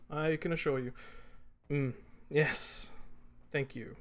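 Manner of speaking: gracious politician small talk; senator greeting guests. Acted. Senator thanking donors at the party, gracious and polished. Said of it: "you catch a few words ... greetings and thanks".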